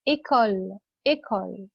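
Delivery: "إيكول" opening on closed French é; teacher's model of é in "إيكول"; initial é sound. Shown as a demonstration. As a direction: say "إيكول" as ay-kol, not ee-kol. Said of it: "لكن إيه".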